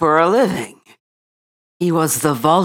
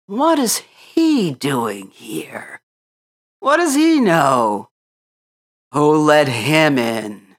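muttering animals; 4 dB louder, slower than usual. A narrator's reading. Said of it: "Mutterings were heard around the room".

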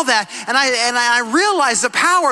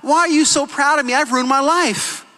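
despairing son; 2 semitones higher than usual. Retold or imitated. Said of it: "He said".

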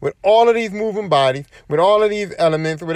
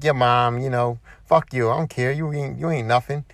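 taunting trash talk; 4 semitones lower than usual. Retold or imitated. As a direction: talk trash under the complaints, low and unbothered. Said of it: "taunting them".

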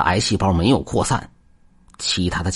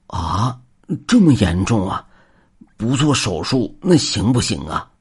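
pleading. Acted. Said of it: "老人哀求地问道".

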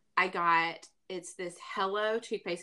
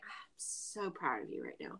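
mock tender praise; 5 semitones lower, 11 dB quieter than usual.

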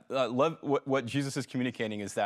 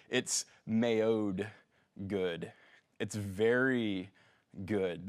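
God admiring creation; 3 semitones lower, much slower than usual. Acted. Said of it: "he says".

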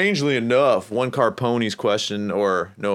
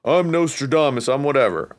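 mock grandiose; 5 semitones higher, 4 dB louder than usual. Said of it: "I'm not saying".

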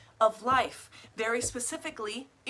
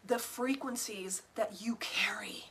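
whispering; 3 semitones lower, 6 dB quieter than usual. Real, not acted. Mystical aside to viewers.

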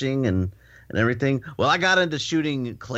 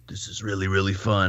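deep Texan voice; 5 semitones lower than usual. Retold or imitated. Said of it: "I like how you do the voices of them".

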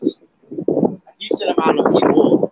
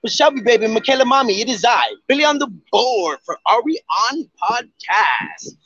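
a hint of a hype host intro; podcast intro hype; 3 semitones higher than usual. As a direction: rattle off the greeting like a host. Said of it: "How does it go?".

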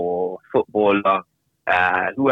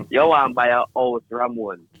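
put-on Jamaican accent; 4 semitones higher than usual. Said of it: "in his thick Jamaican accent".

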